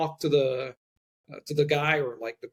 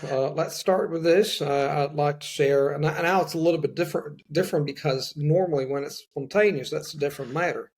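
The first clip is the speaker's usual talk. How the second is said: lightly done Texas-style Southern accent; Southern American accent. Shown as a demonstration. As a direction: ease into a mild American Southern accent on request. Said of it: "let's say American English from the South".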